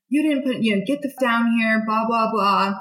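hammed-up angry rant from the boss; retold yell. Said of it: "he's yelling at me".

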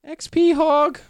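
shrill taunting shout; yelling. Acted. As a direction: holler it gleefully. Character yells taunt again.

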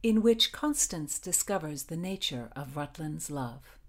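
measured, deliberate storytelling with pauses; story narration. A narrator's reading. Podcast host reads her Tudor novel chapter, measured story narration. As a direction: read it out as a dramatic tale.

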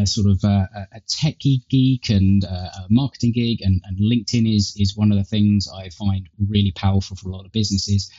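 tinny earbud mic sound; thin, tinny recording through earpods. Real, not acted. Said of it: "I guess, a tinny tone".

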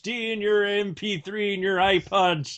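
grumpy old man yelling, lightly voiced; mock cranky old man shouting off lawn; shouting at trespasser. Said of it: "Old man Darrell".

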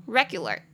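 "regular" with the first syllable "re" stressed. Shown as a demonstration. Teacher showing the stressed syllable, "regular" stressed on "re". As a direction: lean on the "re" of "regular". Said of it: "重音节在第一音节".

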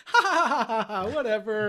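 high put-on ha-ha-ha, trailing into words; acted laugh, dropping into a dismissive finish; mock laughter. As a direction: imitate two men laughing it off. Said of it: "They're both laughing like".

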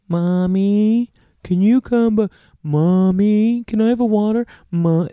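put-on high, pleading little girl voice; a small child calling for mommy at night; little daughter calling. A child calling mommy from bed.

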